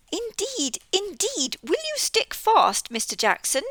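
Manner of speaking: high, fretful little mouse; fussy mouse. Acted. Missus Tittlemouse fretting that the toad will get stuck. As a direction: fuss like a worried housewife.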